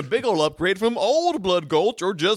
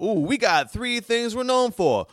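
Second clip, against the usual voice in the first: folksy townsfolk voice; 4 semitones higher than usual. Pretend. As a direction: brag like an old-west local. Townsfolk voice boasting.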